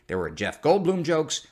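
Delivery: usual speaking voice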